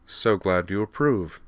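slow, dry understatement; deadpan the thanks. Acted. Devlin answering the princess's compliment, slow and dry. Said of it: "said Devlin dryly".

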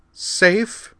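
high, bitter disbelieving echo. Acted. Liza throws the rescuer's word back, bitter. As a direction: spit the word back with scorn. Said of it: "Liza replied bitterly".

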